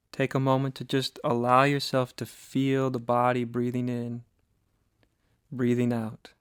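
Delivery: calm, slightly softened meditation voice with long pauses; guided meditation. Acted. Teacher guiding listeners to sit and breathe, guided meditation. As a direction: ease them gently into listening, leaving long silences.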